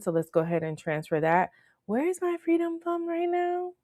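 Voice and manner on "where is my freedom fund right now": high silly voice. Real, not acted.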